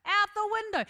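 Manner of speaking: high, insistent stage-loud retelling; very loudly. Retold or imitated. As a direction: repeat it pointedly for the passenger behind to hear. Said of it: "so I said very loudly".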